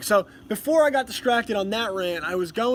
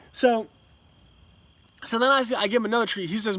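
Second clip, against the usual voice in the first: ordinary talk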